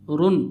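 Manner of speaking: रुन said short and quick, not stretched; quick run. Shown as a demonstration. Teacher demonstrates quick रुन to students. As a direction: clip रुन fast without nasal hum. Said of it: "रुन लंबा खींच कर नहीं पढ़ना है".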